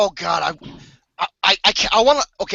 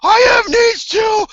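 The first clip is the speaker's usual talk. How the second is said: mock sobbing lament; 4 semitones higher, 3 dB louder, slower than usual. Mock lonely lament, crying shout.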